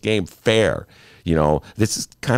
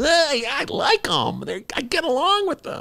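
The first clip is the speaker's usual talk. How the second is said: very high, mocking politician voice; Joe Biden. Host mocking a politician who likes his opponents, in a high caricature voice. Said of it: "Joe Biden".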